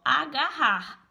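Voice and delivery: "agarrar" said slowly, the rr as a single r sound; slow demo word. Shown as a demonstration. Teacher showing the rr digraph to Denis, slow and clear. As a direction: stretch "agarrar" so one r is heard. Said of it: "eu nem percebo que tem dois R's, ó".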